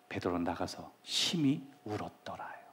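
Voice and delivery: soft whispered line, falling at the end; hushed. Acted. Preacher telling how Peter wept bitterly, whispered softly. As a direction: breathe it out as a grieving whisper.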